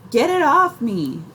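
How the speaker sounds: high panicked shriek, loud; screaming. A narrator's reading. Stung aunt screaming at the kids, panicked shriek. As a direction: scream it while clawing at your back. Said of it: "Aunt Minnie screams".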